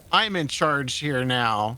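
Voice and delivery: slow, deliberate hero delivery; heroic line. Pretend. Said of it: "You gotta say".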